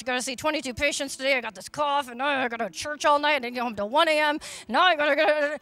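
fast, put-upon complaining; mock grumbling. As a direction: rattle off the chores like a tired moaner. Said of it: "if he was grumbling and complaining".

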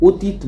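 অতীত as "otit", closed first vowel; o-sound in অতীত. Shown as a demonstration. Teacher shows how we say it, অতীত as "otit". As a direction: say অতীত beginning with a rounded o. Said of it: "তাহলে অ হয়ে যাচ্ছে ও".

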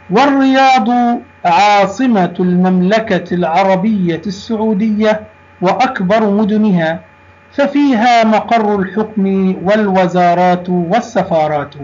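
formal Arabic reading with every ending voiced; measured textbook recitation; lesson read-aloud. Shown as a demonstration. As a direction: read the passage out clearly to a class. Reads the lesson passage aloud.

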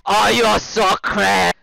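high, loud, drawn-out mock whine; mocking imitation. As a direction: parrot his words in a silly voice. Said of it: "You say I'm crazy".

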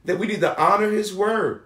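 emphatic preacher's delivery with stretched key words; preaching. Acted. Preacher assuring the people God shows mercy, emphatic preaching. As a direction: preach it firmly, punching key phrases.

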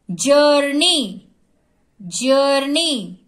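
जर्नी in two slow, stretched beats; syllable by syllable. Shown as a demonstration. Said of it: "एक एक word हमको जोर से बोलना है".

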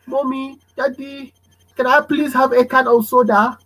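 put-on child begging parents for soda; polite child asking. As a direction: ask nicely for a treat.

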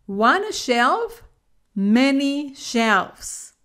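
slow contrast of "shelf" and "shelves"; "many shelves" drawn out slowly; singular versus plural. Shown as a demonstration. Teacher contrasts "One shelf, many shelves" slowly. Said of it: "contrasting singular and plural".

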